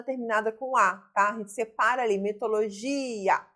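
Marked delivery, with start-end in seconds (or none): 2.2-3.4 "mitologia" with GI drawn out; stressed syllable demonstration. Shown as a demonstration. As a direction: slowly lengthen the GI of "mitologia". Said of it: "gi é a sílaba tônica".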